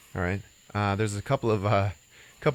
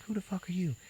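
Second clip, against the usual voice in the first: put-on much higher, softer snotty girl voice; bratty schoolgirl; 11 semitones higher, 7 dB quieter than usual. Shoplifting schoolgirl cursing at Joe, high snotty squeak. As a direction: squeak it out like a nasty little brat. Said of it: "And she's like".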